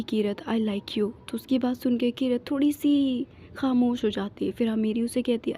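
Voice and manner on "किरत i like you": tender confession. Acted. Sudden confession of love.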